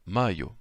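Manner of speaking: "mayo" said deliberately, gliding "ai" then "o"; careful pronunciation. Shown as a demonstration. Teacher showing the word pronounced well, careful and deliberate. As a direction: sound out mayo with its diphthong. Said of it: "si on le prononce bien".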